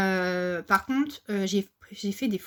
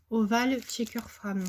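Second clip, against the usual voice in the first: reads "Oval checker femme" slowly in a clumsy French-accented English; self-mocked English accent; 2 semitones higher, slower than usual. Shown as a demonstration. Crafter reading an English die name to her viewers, in a self-mocking French-accented English. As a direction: says the English product name with her jokingly bad English accent. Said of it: "avec mon super accent".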